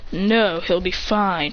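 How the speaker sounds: slow, unhurried reassurance; calm reassurance. Acted. God reassuring the worried onlooker, slow calm. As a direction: brush off the worry calmly. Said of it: "He goes".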